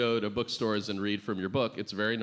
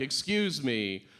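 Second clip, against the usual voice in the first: broken French speaker. Retold or imitated. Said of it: "I had to be like".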